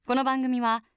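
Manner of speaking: measured programme announcer read; radio announcer. Acted. Radio host introduces guest and sponsor to listeners, announcer style.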